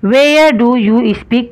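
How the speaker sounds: each word drawn out very slowly; slow dictation. Shown as a demonstration. Teacher to students copying the question, very slow dictation. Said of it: "teacher dictating sentence".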